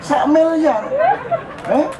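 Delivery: high, laughing exclaim of the billion; laughing mock wonder. Shown as a demonstration. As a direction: laugh through the punchline, pitched high. Mock amazement laughing at joke.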